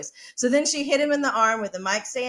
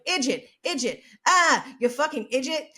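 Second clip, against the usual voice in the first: mock heckler's yell, rising in pitch; imitated heckling, punching each insult; retold yelling; 5 semitones higher than usual. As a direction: jeer from the audience, half shouted. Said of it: "she heard someone in the audience yelling".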